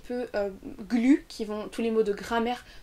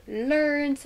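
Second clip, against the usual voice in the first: LEARNED long, high and held; stressed content word; 5 semitones higher, 4 dB louder than usual. Shown as a demonstration. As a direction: stretch LEARNED so it stands out. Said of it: "qui vont ressortir".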